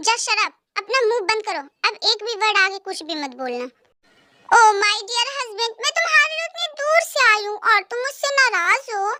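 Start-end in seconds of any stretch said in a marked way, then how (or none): 4.5-7.6 mock sweet. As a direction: taunt him with fake affection. Other wife mock-sweet to husband.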